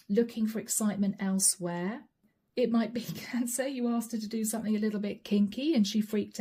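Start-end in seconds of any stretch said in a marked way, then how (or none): 2.6-3.7 laughing. Real, not acted. Laughing at kinky guess.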